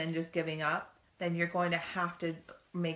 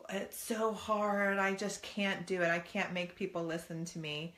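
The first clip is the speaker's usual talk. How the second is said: lightly voiced whining child; whining kid; 2 semitones higher than usual. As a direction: play the kid who gives up. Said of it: "they go".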